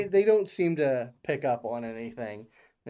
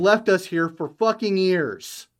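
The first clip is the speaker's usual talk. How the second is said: sudden angry outburst, louder; 3 semitones higher, 6 dB louder than usual. Acted. Abandoned worker yelling at the maintenance visitor, angry. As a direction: lash out at the company man.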